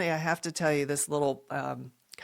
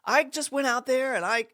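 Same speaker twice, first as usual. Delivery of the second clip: high-pitched imitation of grandmother; retold worried doubt, pitched up; 9 semitones higher than usual. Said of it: "And she's like".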